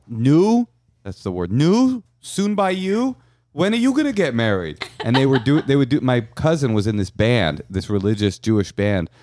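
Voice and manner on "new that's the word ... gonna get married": nagging relative. Retold or imitated. Relatives at weddings nagging about marriage, high and prodding. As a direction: pester him like an old auntie at a wedding. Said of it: "they go".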